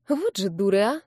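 ordinary delivery, nothing marked

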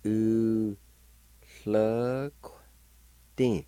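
U, hluk, tin said syllable by syllable with a lateral hl; teacher sounding out U hluk tin; Cherokee syllables. Shown as a demonstration. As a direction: pause between U, hluk and tin. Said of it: "like this".

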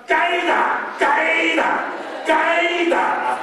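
"该打" called high and sing-song three times; mock scolding cry. Grandma scolding the crying grandson, sing-song "该打". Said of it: "大喊大哭的骂他".

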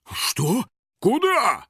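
startled, jumping high on the second word; Юджин gasping. A narrator's reading. Hunter losing sight of his prey, gasping. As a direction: blurt it out, taken aback. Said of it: "ахнул Юджин".

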